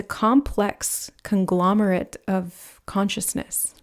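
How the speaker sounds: slow, measured, word by word; slow, deliberate phrasing. Real, not acted. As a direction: spell out the idea slowly, with small gaps. First take of a tongue twister.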